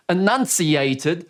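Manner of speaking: enunciated slow, drawn out with a lift; showing emphasis on one word; stressed word. Shown as a demonstration. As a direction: lean hard on enunciated. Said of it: "that word also had a higher range".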